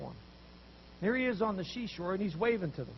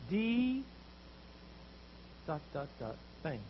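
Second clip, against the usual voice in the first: loud, higher, exasperated protest; louder, higher frustrated complaint, slow at the end; complaining fishermen; 8 semitones higher, 9 dB louder, slower than usual. Retold or imitated. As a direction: whine it out after a fruitless night. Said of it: "what some of you would say".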